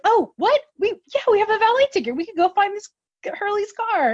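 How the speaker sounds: high, loud, eager imitation; excited realization. Crew realizing they can find Hurley's car, excited. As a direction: pipe up like sleuths who just got a clue.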